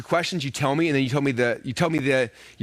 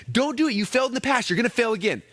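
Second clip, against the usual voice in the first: much higher, pleading warning; warning brain voice; 7 semitones higher than usual. Retold or imitated. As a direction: beg yourself not to try, pitched up high. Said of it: "Your brain's like".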